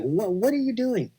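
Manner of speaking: mild pleading mock scream. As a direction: replay disbelief in a high, contained voice. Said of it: "I'm screaming myself".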